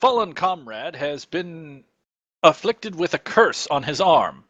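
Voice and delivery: lightly voiced questing hero; earnest adventurer. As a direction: plead formally, with a touch of theatre. Player speaks as adventurer.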